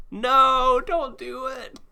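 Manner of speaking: squeaky high pleading cry. Retold or imitated. Voicing Ash's plea.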